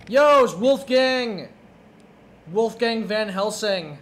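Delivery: slow announcer drawl. Pretend. Drawn-out name announcement.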